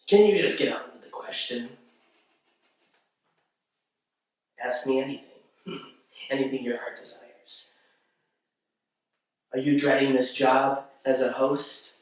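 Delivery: understated creepy genie, tempting the listener; lightly voiced sinister character, measured with long pauses; Wishmaster. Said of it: "I was getting creeped out over here".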